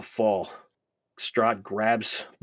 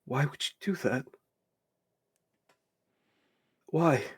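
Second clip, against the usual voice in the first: anguished cry; 5 semitones higher than usual. Acted. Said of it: "and he just goes".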